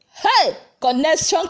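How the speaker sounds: loud, high cry of excitement; a sudden delighted yell; excited shout. Real, not acted. Excited exclamation mid-recap.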